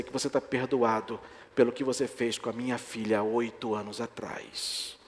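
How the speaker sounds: softly voiced man in tears forgiving; tearful confession. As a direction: let his forgiveness come out quiet and choked. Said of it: "falando, chorando isso".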